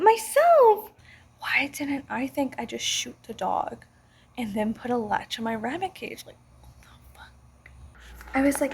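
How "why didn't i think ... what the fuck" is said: sarcastic whispered aside. Real, not acted.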